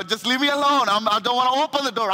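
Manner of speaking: rushed mock brush-off from a tired wife; annoyed wife. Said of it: "You know".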